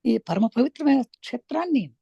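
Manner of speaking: measured meditation-teacher delivery with long pauses; unhurried spiritual instruction, phrase by phrase; guided meditation. Real, not acted. Leads a breath meditation.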